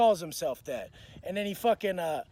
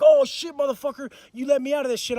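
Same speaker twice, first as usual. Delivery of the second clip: retold angry outburst, higher and louder at the start; pissed; 5 semitones higher, 7 dB louder than usual. Pinned man cursing the cellmate choking him, pissed. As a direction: act out getting pissed mid-fight. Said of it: "I'm getting pissed".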